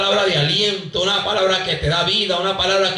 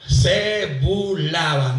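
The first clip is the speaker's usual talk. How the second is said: slow call; 3 semitones lower, slower than usual. Shown as a demonstration. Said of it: "Digan conmigo".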